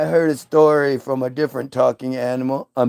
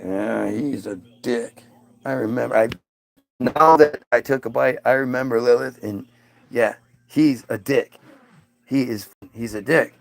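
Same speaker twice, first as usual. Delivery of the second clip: low grumbling Adam; 3 semitones lower than usual. Acted. Adam grumbling about God.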